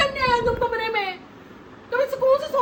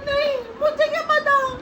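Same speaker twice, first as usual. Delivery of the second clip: denial with a real laugh; laughing while denying; 2 semitones higher than usual. Real, not acted. Wife laughs off the husband's accusation, laughing. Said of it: "देखो, तुम हंस भी रही हो".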